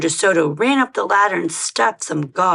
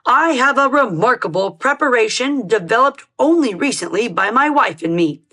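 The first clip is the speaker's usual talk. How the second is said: sales pitch dentist; 4 semitones higher than usual. Acted.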